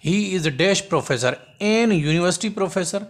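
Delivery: slow reading of both choices; teacher reading the options slowly; slow dictation. Shown as a demonstration. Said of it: "हाणे हिते जेकॾहिं तव्हां note न कंदो".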